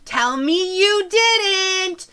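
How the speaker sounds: loud, slow, rising plea; pleading mother. Acted. Mother begging her son to deny it, loud and slow. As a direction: beg him to deny it.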